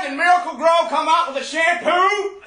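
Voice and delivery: barking drill sergeant voice. Acted. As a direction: bark questions at the recruit. Plays a drill sergeant questioning a recruit.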